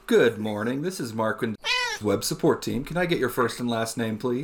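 polite, practised call-centre greeting; lightly voiced helpdesk professional; customer service voice. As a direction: answer the phone like a support agent. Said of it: "hear my customer service voice".

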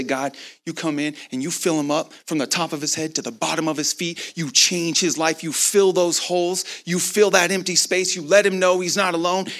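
building, driving prayer rhythm; fervent prayer. Retold or imitated. Preacher praying over his new friend, fervent and building. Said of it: "And I'm just going off".

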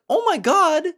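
high, loud mock exclamation; imitated audience woman. Woman rushing up to the comic after the show, imitated exclamation. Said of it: "she came up to me and she was like".

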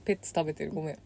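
talking while chewing candy; crunching candy. Real, not acted. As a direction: mouth full of candy.

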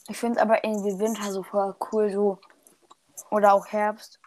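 talking with food in mouth; words around a bite of food; eating something. Real, not acted. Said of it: "ich ess grad was". (mit vollem Mund sprechen)

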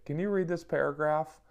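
mock wife voice. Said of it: "that's how I took it".

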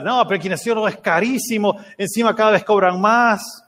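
queja más aguda por el precio; objeción imitada. Retold or imitated. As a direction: imita al papá poniendo peros. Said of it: "empezó a analizar". (protesta actuada)

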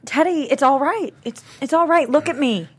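comforting. Acted. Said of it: "sits up to comfort Theodore".

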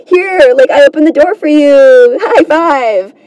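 eager to please, playfully acted; positive guy. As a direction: lightly voice an overjoyed helper. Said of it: "everything would be positive".

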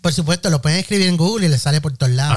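mock formal address. Addresses podcast listeners.

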